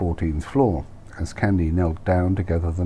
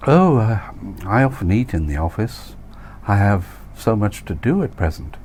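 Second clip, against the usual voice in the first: flustered Candy voice; 3 semitones higher than usual. Acted.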